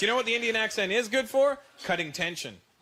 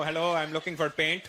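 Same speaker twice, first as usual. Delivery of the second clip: put-on Indian accent; 4 semitones lower than usual. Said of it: "walk into Home Depot and go".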